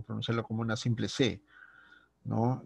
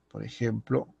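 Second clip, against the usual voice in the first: ordinary talk, nothing marked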